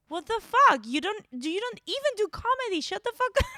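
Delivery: loud, high angry outburst. Retold or imitated. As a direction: snap back furiously. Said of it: "And I was like".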